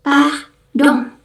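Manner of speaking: "Pardon" as ahdoŋ, nasal ending; French pronunciation. Shown as a demonstration. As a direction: repeat "Pardon" with eng. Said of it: "kita ngomongnya eng".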